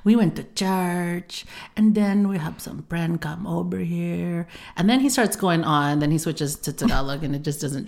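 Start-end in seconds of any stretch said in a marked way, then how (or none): 0.0-4.5 imitating dad. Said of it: "lower voice".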